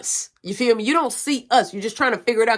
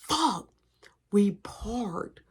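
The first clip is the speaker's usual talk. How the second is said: panicked whisper; 4 dB quieter, much slower than usual. Retold or imitated. Realizing they're caught.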